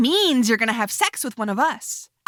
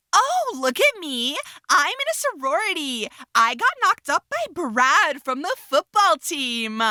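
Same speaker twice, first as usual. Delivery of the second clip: mocking sorority girl. Rosie mocking Rhiannon as a sorority girl, ditzy mock voice. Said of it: "that was just my impression of you".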